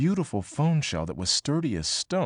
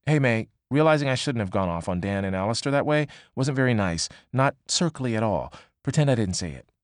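Annie's message. Acted. Annie's first text read aloud.

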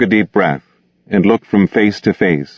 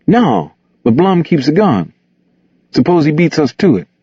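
high-pitched character voice, worried objection; Gus, uneasy objection; 9 semitones higher than usual. Acted. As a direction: argue against the plan, pitched high.

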